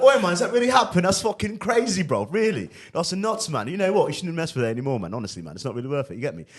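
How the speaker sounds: put-on loud, high, animated London accent; British accent. Faking a phone call near a girl, British accent. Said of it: "you could do your British accent".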